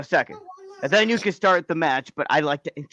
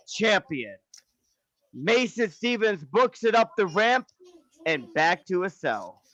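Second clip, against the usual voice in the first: wrestling commentary; 3 semitones higher, slower than usual. Acted. Match commentary winding down.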